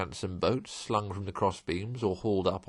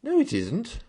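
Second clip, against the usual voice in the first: sharp, higher indignant protest; indignant cry; 14 semitones higher, 4 dB louder than usual. Acted. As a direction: cry it out, affronted. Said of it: "cried the Rat indignantly".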